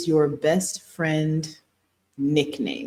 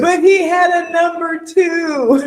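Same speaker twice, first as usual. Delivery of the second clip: high, loud, drawn-out exclamation; shouted, high-pitched insistence; excited protest; 12 semitones higher, 7 dB louder, slower than usual. Real, not acted. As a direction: blurt it out loudly in triumph. Excitedly insisting on her movie reference.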